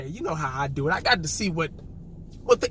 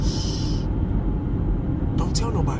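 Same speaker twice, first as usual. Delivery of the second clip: mock secret; 6 semitones lower than usual. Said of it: "I'm whispering".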